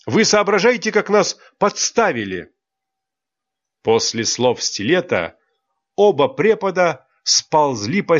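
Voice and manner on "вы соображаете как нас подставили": higher still, stress on вы; rising indignation. Acted. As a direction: push harder on вы, outraged. Angry scolding of teachers. (ещё выше, ударение на «вы»)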